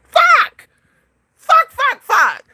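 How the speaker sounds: high, loud frustrated cursing; exasperated squealed outburst; real frustration. Real, not acted. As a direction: curse in a high wail at your own blunder. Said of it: "I'm so mad right now".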